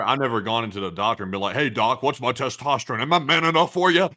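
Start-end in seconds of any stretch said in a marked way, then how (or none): 1.5-4.1 cocky patient voice. Retold or imitated. Mock patient asking doctor.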